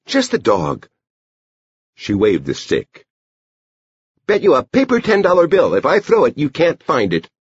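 put-on high-pitched girl laying a bet; Edie. A narrator's reading. Girl dares the dog to find the stick, high child voice. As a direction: pitch it way up, like a child making a dare.

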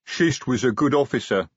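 troll sergeant's heavy-tongued voice, lightly done; a hint of troll rumble; lightly voiced, regretful troll; rumbling troll. A narrator's reading. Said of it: "Detritus rumbled".

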